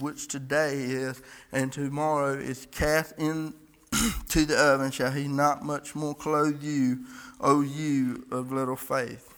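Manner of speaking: solemn, declaiming King James reading; scripture reading. Acted.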